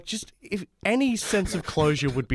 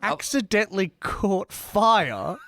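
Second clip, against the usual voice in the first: incredulous question; 4 semitones higher, much slower than usual. Real, not acted. Disbelief at a silly joke idea.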